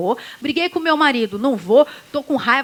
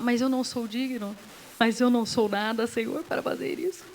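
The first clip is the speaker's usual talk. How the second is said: mock false humility; 3 semitones lower, 5 dB quieter than usual. Mocking false humility to God.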